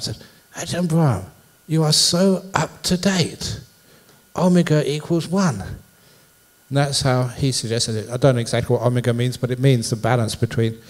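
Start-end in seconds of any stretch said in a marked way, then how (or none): 0.6-5.6 higher-pitched, pleased retold compliment; smiling approval. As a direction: imitate someone praising with a smile, pitched up. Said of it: "looked at me and smiled".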